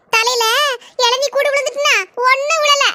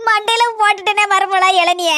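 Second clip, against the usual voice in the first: comic wail over the brother; hammed-up tearful cry; mock wailing; 3 semitones lower than usual. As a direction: cry it out like a village lament. Mother wails over hurt brother.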